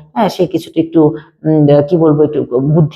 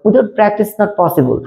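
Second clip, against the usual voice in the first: slow, emphatic, word by word; slow closing line; 3 semitones higher, much slower than usual. Shown as a demonstration. Teacher slowly stresses the closing motto to students. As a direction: drive the point home slowly. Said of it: "যদি তোমরা practice করো".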